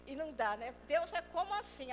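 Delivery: ordinary talk, nothing marked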